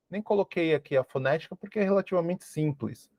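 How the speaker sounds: ordinary delivery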